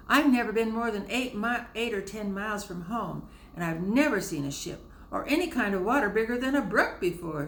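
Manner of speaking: put-on a timid country girl confessing her fears; nervous young girl. A narrator's reading. Fanny telling James she fears the water, nervous.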